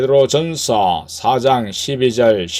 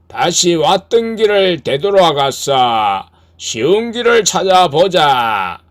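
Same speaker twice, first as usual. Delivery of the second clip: tempting devil; 6 semitones higher, 4 dB louder than usual. Acted. Devil in the boat urges turning back, higher tempting voice. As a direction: lure the listener toward the easy way. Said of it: "그 마귀는".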